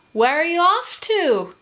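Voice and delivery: high bird's hail; calling down. A narrator's reading. Kookaburra asking travellers below, high calling voice. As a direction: call the question across a distance. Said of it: "he called".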